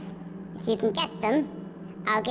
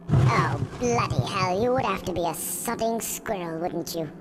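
exasperated outburst; 3 semitones lower than usual. Acted. Reaper annoyed at a squirrel, exasperated. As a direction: sigh it out in annoyance.

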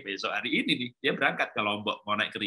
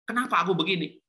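acted frustration; 5 semitones higher than usual. Frustrated child asks why they are this way, acted frustration. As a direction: ask it high, like a frustrated child. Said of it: "Akhirnya dia frustasi".

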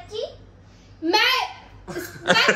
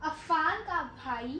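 whispering; 4 semitones lower, 9 dB quieter, much slower than usual. Acted. Whisper challenge, slow whisper.

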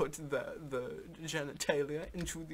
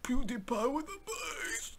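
excited laughing shout; 10 semitones higher, slower than usual. Real, not acted.

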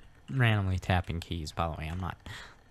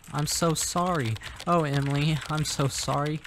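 higher-pitched, mock-concerned condolence; put-on sympathy; 5 semitones higher than usual. Player consoling Emily about her breakup, put-on concern. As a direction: lay the sympathy on a little.

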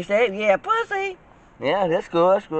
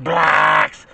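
low, drawn-out blacks; deep emphasis; 3 semitones lower, 4 dB louder than usual. Shown as a demonstration. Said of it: "I'm just emphasizing it really, really big and deep".

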